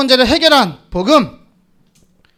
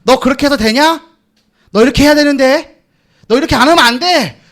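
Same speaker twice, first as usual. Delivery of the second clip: mock scolding world; 3 semitones higher than usual. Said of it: "손가락질 할 거예요".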